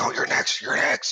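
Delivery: seething, enraged fury muttered under the breath. A player's character running up to flank an enemy, enraged muttering. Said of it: "frothing at the mouth full in a rage and muttering".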